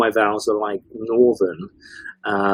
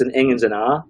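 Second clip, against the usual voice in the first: put-on Dundonian accent. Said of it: "very strong Dundonian accent".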